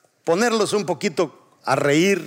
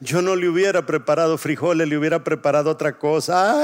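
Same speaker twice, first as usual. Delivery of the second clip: hammed-up weepy widow lament; mock tearful; faster than usual. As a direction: wail it lightly, like a joke widow. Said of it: "la primer viuda llorando dice". (lloriqueo fingido de viuda)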